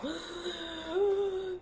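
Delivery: high, sharp laughing gasp; a gasp that steals her breath. Real, not acted. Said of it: "Let me catch my breath".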